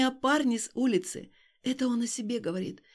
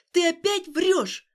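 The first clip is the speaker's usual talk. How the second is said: louder, higher, slow angry cry; furious accusation; 7 semitones higher, 7 dB louder, slower than usual. Acted. Alina shoving Stas, shouting that he lies again. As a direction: hurl every word at him.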